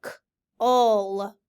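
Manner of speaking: K-ul split into k and ul; sounds split. Shown as a demonstration. Teacher segments sounds for students. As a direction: segment cull slowly.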